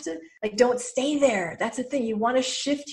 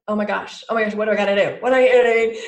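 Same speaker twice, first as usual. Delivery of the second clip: louder and louder frantic worrying; imitating frantic panic, building louder; mock panic; 7 dB louder, faster than usual. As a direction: rush it like you're freaking out. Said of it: "we hear those voices and we're like".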